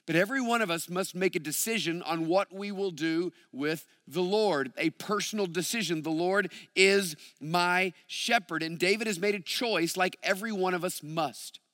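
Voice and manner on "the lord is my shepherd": slow, with IS, MY and SHEPHERD each set apart; word-by-word emphasis on "is my shepherd"; stress on each word. Shown as a demonstration. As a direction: space out "is", "my", "shepherd" deliberately. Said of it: "putting emphasis on different words".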